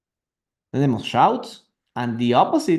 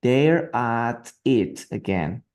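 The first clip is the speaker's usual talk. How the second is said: very slow, drawn out; slower model reading; 2 semitones lower, much slower than usual. Shown as a demonstration. Teacher repeating the line very slowly for students. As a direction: stretch every word for the learners.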